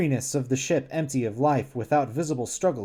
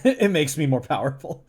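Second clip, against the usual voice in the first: ordinary delivery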